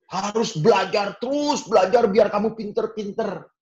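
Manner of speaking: high mock nagging parent; pushy parent. Preacher mimics parents nagging their child to study. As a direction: nag like a demanding parent.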